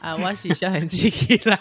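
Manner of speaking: playful robot announcement. Pretend.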